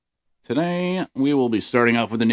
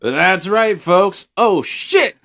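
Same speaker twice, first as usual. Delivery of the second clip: flustered; 9 semitones higher, 7 dB louder than usual. Real, not acted. Flustered host after botched intro.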